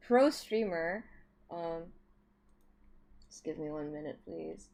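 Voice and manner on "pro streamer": mock boastful. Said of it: "pro streamer here".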